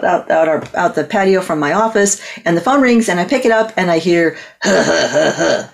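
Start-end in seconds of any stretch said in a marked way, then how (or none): 4.6-5.7 low huffs, imitating the caller; imitated heavy huffing.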